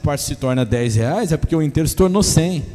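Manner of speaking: loud, ringing sermon cadence; preaching at full force. Acted. Pastor proclaiming to church, loud and ringing. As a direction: drive the point home to the congregation.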